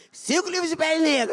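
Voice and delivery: gleeful confession; can't believe it; excited. Retold or imitated. Excited retold purchase.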